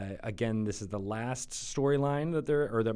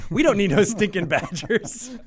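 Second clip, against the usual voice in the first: movie bandit voice; 8 semitones higher, 8 dB louder than usual. Pretend. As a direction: ham up the old bandit line. Jokey movie bandit quote.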